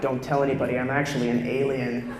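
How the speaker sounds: low, confiding mock confession. Comedian messing with small children, low confiding voice. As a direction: drop low and let them in on a secret. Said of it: "mess with them and be like".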